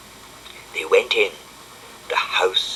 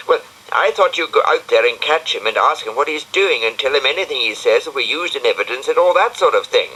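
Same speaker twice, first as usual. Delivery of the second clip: a fussy little snail explaining, unhurried; Brian the snail; 5 semitones higher than usual. Acted.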